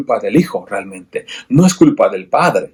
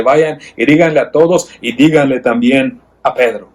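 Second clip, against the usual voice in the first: voicing Jesus; 2 semitones higher than usual. Risen Jesus sends disciples to tell Peter, lightly voiced. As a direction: give the message with gentle urgency.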